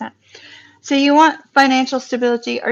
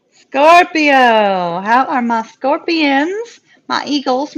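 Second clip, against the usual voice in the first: excited greeting; 3 semitones higher, 5 dB louder, much slower than usual. Real, not acted. Greeting the next sign's viewers.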